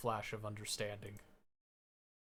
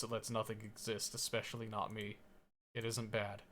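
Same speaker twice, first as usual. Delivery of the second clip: quiet numb; 7 dB quieter than usual. A narrator's reading.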